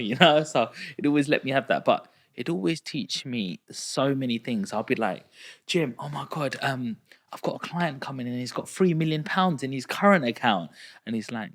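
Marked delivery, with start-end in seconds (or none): 5.7-10.7 higher, worked-up junior's report; flustered excitement. Retold or imitated. New bank kid telling mentor of a rich client, flustered. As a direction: gush it in a mild mock panic. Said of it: "calm down".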